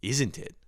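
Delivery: "Isn't it" echoed with the z and both t's sounded; over-pronounced. Retold or imitated. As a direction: parrot "Isn't it" back in full. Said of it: "Why are you saying".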